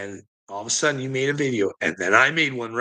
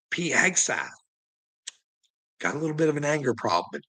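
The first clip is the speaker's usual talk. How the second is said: ordinary delivery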